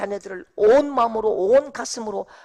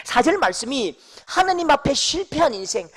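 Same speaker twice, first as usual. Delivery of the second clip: ordinary talk, nothing marked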